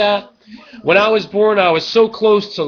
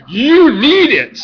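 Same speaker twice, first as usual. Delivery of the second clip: hype shout; 8 semitones higher, 8 dB louder, slower than usual. Shown as a demonstration. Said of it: "you really need it".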